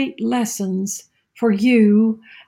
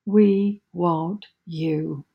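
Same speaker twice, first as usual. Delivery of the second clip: soft, lower, very slow plea; restrained cry; 3 semitones lower, 4 dB quieter, much slower than usual. Acted. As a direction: draw out a quiet appeal to Jesus. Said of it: "And we cry out".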